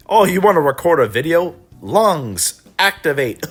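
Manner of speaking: mock lungs voice. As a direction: play the lungs as a gleeful villain powering up. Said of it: "and all of a sudden".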